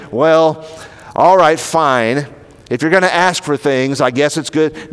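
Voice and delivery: mock reluctant "all right, fine"; imitating grudging consent. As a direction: concede as if grudgingly, lightly acted. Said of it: "not somehow grudging about this".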